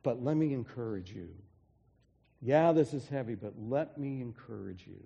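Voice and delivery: a hint of leaning in, gently encouraging. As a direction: ease the tone down to comfort them. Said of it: "lowers his voice".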